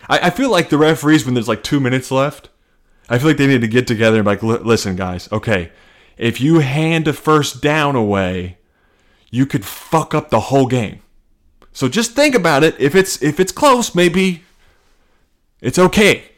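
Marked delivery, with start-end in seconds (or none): 4.4-16.2 referee pep talk. Acted. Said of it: "I'm really into this character".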